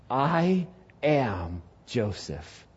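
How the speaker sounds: slow, hushed I am Joseph; quiet reveal. Acted. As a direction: let it land softly and slowly.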